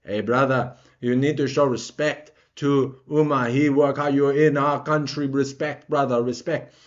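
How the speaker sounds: put-on foreign accent; accented demand for respect; Khabib. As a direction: imitate a stern accented fighter on speakerphone. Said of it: "And Khabib's like".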